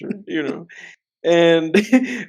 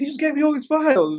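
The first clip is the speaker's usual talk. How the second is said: put-on excited movie character voice, higher; 6 semitones higher than usual. Retelling a My Cousin Vinny scene: Joe Pesci as Vinny, imitating excitement. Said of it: "so excited".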